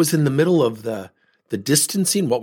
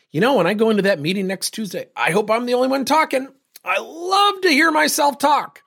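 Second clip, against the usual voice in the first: climbing much higher and slowing into a smug sing-song; mocking self-absorbed coworker; 11 semitones higher than usual. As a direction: ham up the vain colleague who loves his own voice. Mocking imagined self-absorbed colleague.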